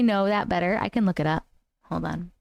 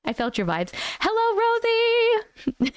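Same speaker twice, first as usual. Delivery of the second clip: put-on Southern accent. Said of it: "we're done with accents for the moment".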